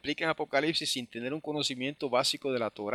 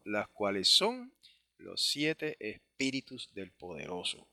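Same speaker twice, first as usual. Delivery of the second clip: slow, deliberate verse reading; scripture reading; slower than usual. Acted. Teacher reading the verse in translation, measured scripture reading.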